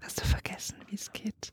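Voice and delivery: hushed teasing question; whispering. Real, not acted.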